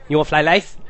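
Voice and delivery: imitated East Asian accent, "rice" rising as a question; mock East Asian accent. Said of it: "let me say it how he said it".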